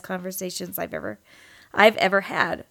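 short of breath. Real, not acted. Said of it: "I sound like I'm running out of breath".

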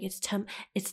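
attempted British "tomato" with a long ah; UK accent. Boyfriend correcting her word, amateur UK accent. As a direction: correct someone with a put-on UK "tomato". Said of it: "how to do a U K accent".

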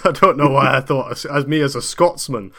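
broad put-on Scottish accent. Scotsman puzzling over his own audition, put-on Scottish accent. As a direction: play the baffled Scotsman, accent laid on thick. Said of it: "offensively Scottish one you're doing now".

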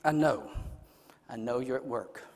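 very low, soft murmured prayer; hushed prayer. Shown as a demonstration. Preacher modelling a trusting prayer to the Lord, near whisper. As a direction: pray it privately, almost to yourself, with long pauses. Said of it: "You need to whisper that".

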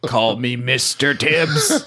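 slow, weighty movie quote; movie-line impression. Host quoting a Poitier line for laughs, slow mock-dramatic. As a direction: deliver it like a famous film line, drawn out.

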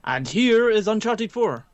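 big, slow trailer announcer. Pretend. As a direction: announce it like a show host. Hypes the game like an announcer.

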